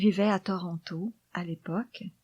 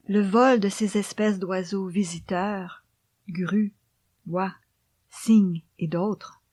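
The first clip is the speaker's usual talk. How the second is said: poem recitation. Acted. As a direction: read the poem gently, almost whispered.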